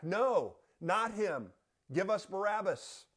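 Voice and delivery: high, loud crowd cry for Barabbas; crowd shouting. Acted. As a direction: shout it back as the angry mob. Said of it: "They shouted back".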